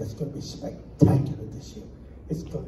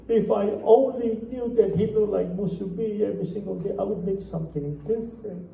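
mock lament; 4 semitones higher than usual. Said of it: "the Japanese lady says".

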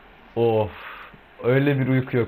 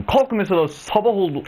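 mock wake-up yell; 7 semitones higher than usual. Shouting at lazy villagers to get up, mock yell. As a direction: bark them awake, half joking.

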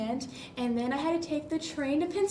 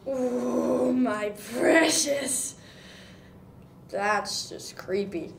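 Gollum voice; 3 semitones lower, slower than usual. Acted. Gollum-like creepy voice.

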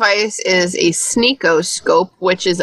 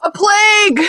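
mock wail; 13 semitones higher than usual. Mock cry about the rat.

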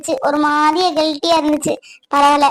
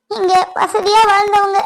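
higher, tearful plea; breaking into tears; 4 semitones higher than usual. Acted. Wife pleads with her husband, tearful and crying. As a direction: let the voice crack with crying.

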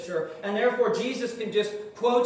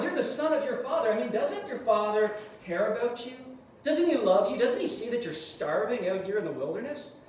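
lightly voiced Satan sweet-talking a starving Jesus; coaxing tempter; 3 semitones higher than usual. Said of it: "In other words".

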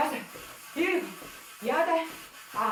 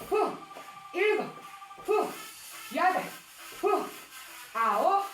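fitness class counting; 3 semitones higher, slower than usual. Acted. Counting reps, panting between.

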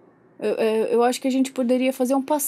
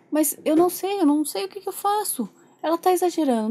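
higher-pitched exasperated protest; irritated; 5 semitones higher than usual. Pretend. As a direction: protest at your wits' end. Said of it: "Eu tô muito irritado". (irritado, sem saber o que fazer)

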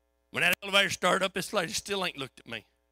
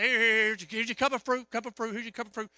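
flustered; 4 semitones higher than usual. Retold or imitated. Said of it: "I actually shook enough".

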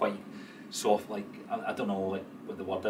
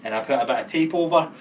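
imitating her; 3 semitones higher, 7 dB louder than usual. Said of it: "she was like".

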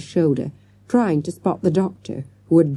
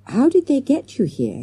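timid; 4 semitones higher than usual. A narrator's reading. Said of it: "he asked timidly".

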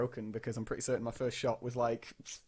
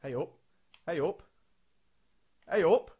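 building excitement; 4 semitones higher, 4 dB louder than usual. Real, not acted. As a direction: build from muttering to a yell. Chance building, watching the attack.

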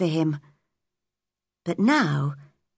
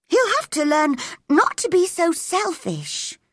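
coldly; 10 semitones higher than usual. A narrator's reading. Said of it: "replied Mary coldly".

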